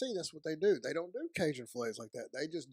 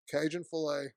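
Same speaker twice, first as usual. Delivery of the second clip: mouth full. Real, not acted. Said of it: "I'm sorry I'm eating with my mouth full".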